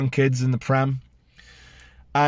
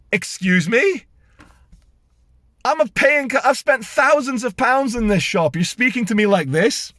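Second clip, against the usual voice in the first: higher-pitched offended disbelief; indignant retort; 6 semitones higher than usual. Retold or imitated. Shopper snaps back at rude staff, indignant disbelief. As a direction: act outraged as a big spender. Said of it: "I was like".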